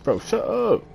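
loud snap. Real, not acted. Teasing friend while playing.

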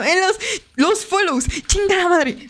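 high exasperated self-correction; fed up. Real, not acted. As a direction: curse your own repeated slip. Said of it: "estoy hasta la madre".

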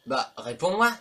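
loud, exasperated retort to a character; mock indignant demand. Player telling the game character to answer, mock indignation. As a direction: raise your voice and demand an answer.

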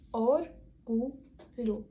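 "Оргулю" very slowly, split or-gu-lyu; по складах. Shown as a demonstration. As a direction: break "Оргулю" into three separate syllables. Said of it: "Ділимо на склади". (повільно по складах: «ор-гу-лю»)

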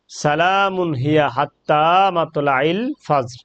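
slow recitation of the verse; Quran recitation. Shown as a demonstration. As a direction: recite it slowly and evenly. (ধীর তিলাওয়াত)

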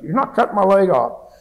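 loud, high, panicked refusal; retold frantic insistence from the hospital bed; excited protest. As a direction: shout it like a scared wounded soldier. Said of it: "Then I really got excited".

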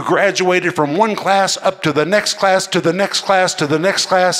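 "to the next class" repeated, each one pressed; building repetition. Real, not acted. Preacher picturing a student moving up, building. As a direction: climb step by step. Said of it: "repeats phrase to show climbing".

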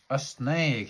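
high startled yelp at a snake; mock fright, high and sharp; startled cry. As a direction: jump and cry out in alarm. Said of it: "he cried".

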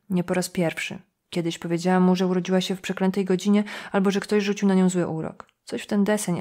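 ordinary delivery

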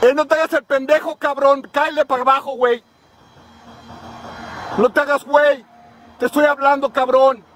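calling out. Real, not acted. Yelling up at a pole worker.

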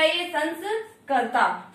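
संस्कर्ता drawn out slowly, each sound clear; teacher slowly sounding out संस्कर्ता; slow demo. Shown as a demonstration. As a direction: spell out संस्कर्ता syllable by syllable. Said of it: "तो यहाँ पर क्या हो गया".

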